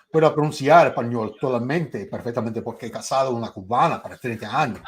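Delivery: speaking Spanish with a Cuban accent. Shown as a demonstration. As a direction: show off fluent-sounding Spanish. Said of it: "I can imitate ... my Spanish".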